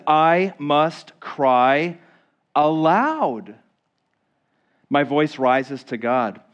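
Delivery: very slow, drawn-out I must cry aloud; emphatic quote. Shown as a demonstration. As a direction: stretch out the cry. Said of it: "He says".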